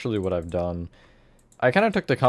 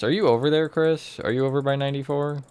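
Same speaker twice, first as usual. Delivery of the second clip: raised voice, calling out a question; calling from far away; 5 semitones higher than usual. Real, not acted. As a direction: call across the map to a friend. Calling out to Chris in game.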